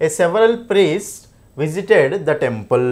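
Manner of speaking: very slow, evenly spaced sentence reading; slow dictation. Shown as a demonstration. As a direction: read it out word by word for students to check. Reading test sentence for error spotting. (వాక్యాన్ని చాలా నెమ్మదిగా, పదం పదంగా చదవడం)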